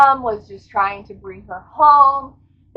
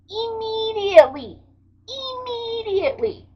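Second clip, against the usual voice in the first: urgent; 11 semitones higher, 4 dB quieter than usual. Real, not acted. Urgent need for next book.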